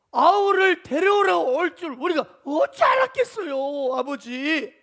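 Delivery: loud, drawn-out exasperated appeal; pleading protest. Retold or imitated. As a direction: plead innocence to your father. Sons protest to scolding father.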